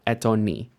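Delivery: "etoni" run together as one word; no gap anywhere inside "etoni"; one joined word. Shown as a demonstration. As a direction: say "etoni" in one smooth unit. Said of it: "as if it were one word".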